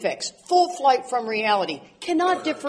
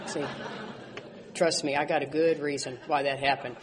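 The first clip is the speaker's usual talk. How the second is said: laughing mock excuse; 8 semitones lower, 7 dB quieter than usual. Mocking own excuses, laughing.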